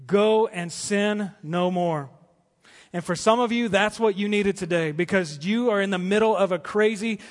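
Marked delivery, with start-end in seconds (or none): 0.1-2.1 very slow, each word set apart; slow tender Jesus quote. Acted. Preacher voicing Jesus to the woman, slowly and tenderly. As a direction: let every word land with tenderness. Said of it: "and he said".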